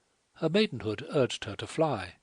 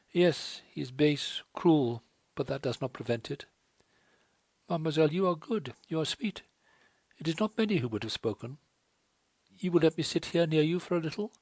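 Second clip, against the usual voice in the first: put-on higher, tearful young French woman pleading; a wretched girl begging her to leave; distressed French girl; 6 semitones higher than usual. A narrator's reading.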